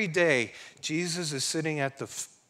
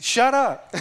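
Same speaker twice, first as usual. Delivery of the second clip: "Shut up" shouted high and loud; 9 semitones higher, 8 dB louder than usual. Retold or imitated. Pastor imitating God's rebuke, loud put-on shout. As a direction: yell it in a put-on booming voice. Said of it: "You said".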